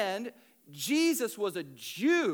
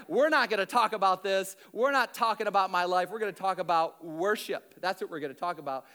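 deflecting; faster than usual. Retold or imitated. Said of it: "She deflects".

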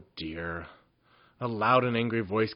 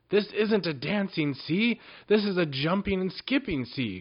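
groaning seasick goblin; 8 semitones higher, 4 dB louder than usual. A narrator's reading. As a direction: groan it out, queasy. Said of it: "groaned poor Fifo".

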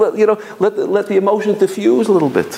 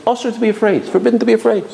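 rabbi's reassuring words; 5 semitones higher than usual. Retold or imitated. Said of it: "a certain emus in the way he said it".

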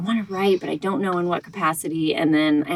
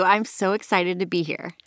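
cheesy. Real, not acted. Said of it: "That sounded so cheesy".

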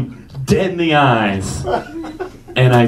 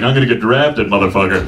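retold boast; 5 semitones lower, faster than usual. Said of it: "he doesn't talk that hood".

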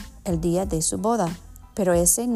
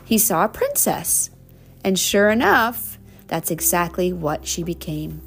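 warm storybook reading; reading to children; slower than usual. Acted. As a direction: read it like a bedtime story. Reading picture book to child.

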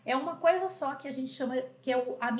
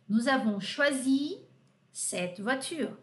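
slow, careful French model sentence; slower than usual. Shown as a demonstration. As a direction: spell it out slowly for the class. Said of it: "model sentence slowly". (frase modelo em francês, devagar)

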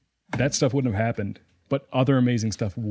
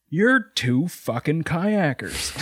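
slow, laughing through the words; 5 semitones higher, much slower than usual. Retold or imitated. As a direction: quote him while cracking up. Retold quote from a stranger.

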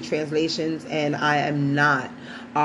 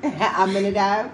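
laughing question; 4 semitones higher than usual. Real, not acted. Laughs at son's stumble.

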